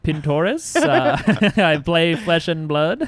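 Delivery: put-on slow American accent breaking into laughter; the speaker's American accent. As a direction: fake American accent, cracking up. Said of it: "He's doing an American accent".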